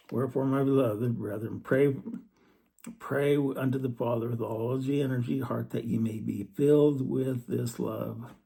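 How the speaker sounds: solemn, emphatic verse reading; fervent reading of scripture. Acted. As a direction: preach the verse, leaning hard on pray. Reads scripture aloud.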